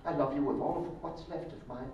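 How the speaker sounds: hushed raspy undead suitor. Pretend. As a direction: rasp out a dusty love vow. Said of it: "In your raspy voice".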